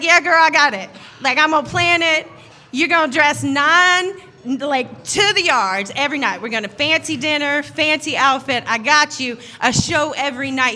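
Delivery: excited. Retold or imitated. Brother promising his sister a fancy cruise, excited. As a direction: talk up the big plans with excitement. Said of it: "He was so excited".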